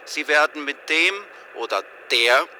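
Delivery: recorded hotline menu announcement; phone menu voice. Acted. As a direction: read it like an automated phone menu.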